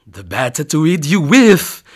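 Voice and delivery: loud menacing growl. Acted. Wolf drops the act and growls at the girl, loud. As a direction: drop the disguise and growl. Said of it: "growled the wolf".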